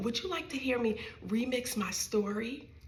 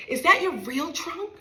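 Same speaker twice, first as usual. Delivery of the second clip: put-on child's loud blurt; 6 semitones higher, 7 dB louder than usual.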